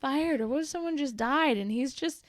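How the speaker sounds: lightly voiced child reasoning with Mom; children pleading. Children telling Mom to let it go, lightly imitated pleading. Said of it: "both my children were like".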